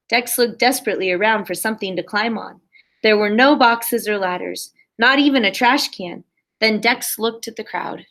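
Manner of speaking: put-on lively read-aloud for a class of kids; animated picture-book narration; storybook reading. A narrator's reading. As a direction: read it like story time on the rug. Teacher reads picture book aloud.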